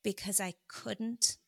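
holding back tears; emotional. Real, not acted. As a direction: voice welling with emotion. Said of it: "I'm getting emotional thinking about it".

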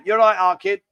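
lightly imitated Scouse accent; Liverpool accent. Shown as a demonstration. Host showing how Liverpool people talk, mild Scouse accent. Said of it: "that's how they say it".

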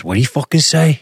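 riled-up mock mobster challenge; Tony Soprano. Imitating Tony getting worked up at the Russian, riled. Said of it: "when he would get like that".

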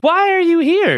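high-pitched incredulous question; mock disbelief. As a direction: imitate yourself challenging a friend, baffled. Retold confrontation with drunk friend.

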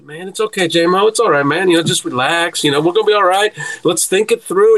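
lightly acted reassurance; easygoing, mildly soothing retold voice; Percy calming him. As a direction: imitate a friend talking someone down. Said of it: "this is what Percy does".

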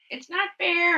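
a hint of a petulant child; little girl voice. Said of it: "this little girl voice in my head".

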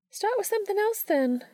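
kindly teacher reassuring her student; Missouri, gentle mentor. A narrator's reading. Missouri reassuring Dean about his poem, gently.

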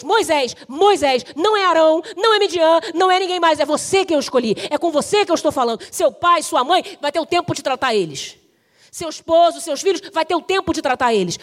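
emphatic, punched short phrases; loud, urgent divine summons; forceful preaching. Acted. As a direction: preach God's call with mounting insistence. Preaches God's call at full force.

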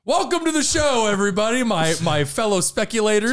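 bright talk show host welcome. Pretend. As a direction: greet the audience like a TV host. Mock podcast host opening.

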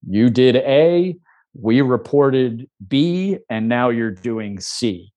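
slow, measured step-by-step listing; point-by-point recital. Acted. Press laying out the client's moves in order, slow and deliberate. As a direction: lay out each step slowly and separately. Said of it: "point it out chronologically".

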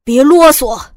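loud, angry order; impatient snap. A narrator's reading. Gunman ordering the sister to hurry, loud angry snap. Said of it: "于少辉瞪着我催促道".

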